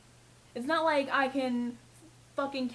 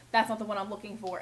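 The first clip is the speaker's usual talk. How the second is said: curt customer; 3 semitones lower, faster than usual. Retold or imitated. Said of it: "And you go".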